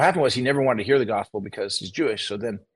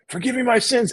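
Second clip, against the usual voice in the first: excited high echo; uncle echoing the prayer, much higher; 10 semitones higher than usual. Retold or imitated. Dying uncle echoing his nephew's prayer, voice soaring. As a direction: repeat it back eagerly, way up high. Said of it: "And he goes".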